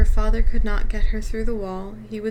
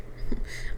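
soft laugh; 5 dB quieter than usual. Real, not acted. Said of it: "I'm sorry".

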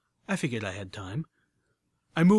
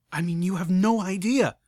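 relieved; 6 semitones higher, 6 dB louder than usual. Acted. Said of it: "sounding relieved".

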